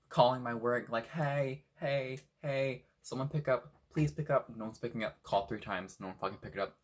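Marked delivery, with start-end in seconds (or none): 1.1-4.5 urgent pleading. Retold or imitated. Begging work phone to answer.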